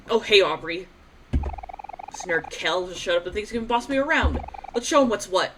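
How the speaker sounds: Kim voice. Acted. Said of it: "I cannot keep a consistent voice for Kim".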